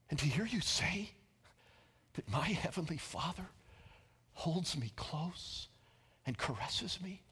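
soft, breaking into near-whisper; quiet, halting wonder, rising on the last word; hushed awe. Retold or imitated. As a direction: relay overwhelmed disbelief in a hushed voice. Retold man overcome by God's tenderness.

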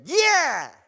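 high, loud eager yeah; Eve's eager yeah. Acted. Eve answering the serpent, high and eager. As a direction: blurt it out eagerly. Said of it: "And she said".

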